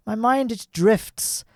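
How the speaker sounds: very slow, drawn-out "my mind, it drifts"; dreamy slow. Acted. Gamer excusing his mistake, slow mock-dreamy drift. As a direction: let the words drift off slowly. Musing on why he messed up.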